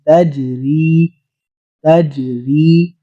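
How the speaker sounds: تجری with a light echo bounce on the جیم, slow; qalqalah on jeem. Shown as a demonstration. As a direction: shake the ج in تجری without a jolt. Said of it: "قلقلہ لفظ کو ہلانا".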